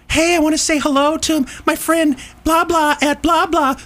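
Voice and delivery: high, bright mock DJ greeting; hammed-up radio shout-out voice. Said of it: "all of those".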